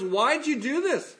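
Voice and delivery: mock crying out. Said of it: "He cries out to God and goes".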